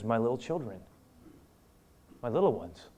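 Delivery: soft, gentle address to little ones; tender and soft. Retold or imitated. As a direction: speak like to children. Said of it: "A very tender".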